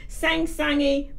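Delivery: a touch of sweet sing-song imitation; sing-songy. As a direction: stretch it out with a gentle lilt. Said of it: "they have the most loving, sweet, kind voices".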